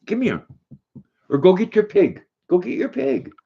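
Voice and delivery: high, sing-song call to the dog; high coaxing dog voice. Real, not acted. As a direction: coax the dog to fetch its toy.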